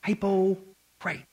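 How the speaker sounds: slow, drawn-out Southern "hypocrite"; the word "hypocrite" drawled slowly in a Southern way; Southern accent. Retold or imitated. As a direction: stretch "hypocrite" like a Southern preacher. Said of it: "as they would say down south".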